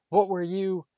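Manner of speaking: loud, high, outraged question; scandalised outburst, cut off; shocked. A narrator's reading. Percy confronting his brother, loudly shocked.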